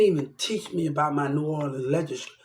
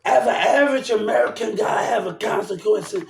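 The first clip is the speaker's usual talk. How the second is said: raised angry voice; shout; 4 semitones higher than usual. Real, not acted. Shouting at a viewer about consequences, angry.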